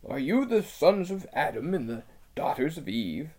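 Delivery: timid beaver voice; a wary little animal checking strangers; lisping buck-toothed beaver. Acted.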